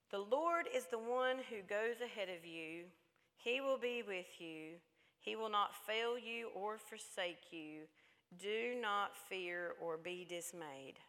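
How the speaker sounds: slow, measured Bible reading; scripture reading. Real, not acted. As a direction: read the verse deliberately, phrase by phrase. Reads scripture aloud.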